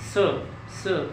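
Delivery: स hissed softly through closed lips; closed-mouth s. Shown as a demonstration. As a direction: keep the mouth shut and let स come. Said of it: "आपको स की sound आएगी". (मुंह बंद रखकर हल्का स)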